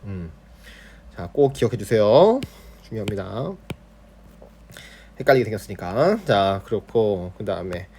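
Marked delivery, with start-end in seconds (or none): none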